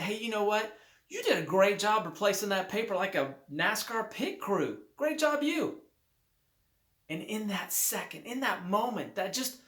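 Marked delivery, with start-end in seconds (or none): 0.0-5.8 upbeat praise. Retold or imitated. Guest cheering up the barista, upbeat praise. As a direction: pump her back up with praise. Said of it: "looked at her and said".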